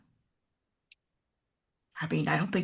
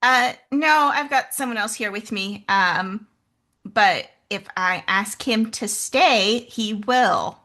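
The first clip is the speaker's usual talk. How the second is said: raised voice, a bit slow; calling out; 3 semitones higher, 5 dB louder than usual. Acted. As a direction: call across the gap. Calling out across distance.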